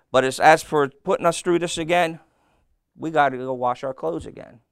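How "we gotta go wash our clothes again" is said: laughing. Acted. Joke line, laughing.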